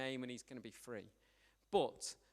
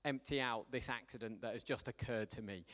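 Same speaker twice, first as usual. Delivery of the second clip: low, hushed mock kid thinking aloud; a lightly voiced boy talking himself through an accident; mock inner voice of young Mark; 5 semitones lower than usual. Preacher voicing young Mark's panicked thought, low and hushed. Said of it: "he's like".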